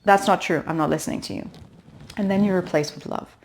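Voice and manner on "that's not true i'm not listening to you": firm stop. Shown as a demonstration. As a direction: put the critic in its place. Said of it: "you just go".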